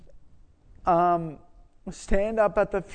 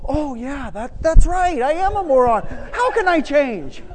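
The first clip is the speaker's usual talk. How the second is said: mock meek agreement; 7 semitones higher, 4 dB louder than usual. Mock meek reply to insult.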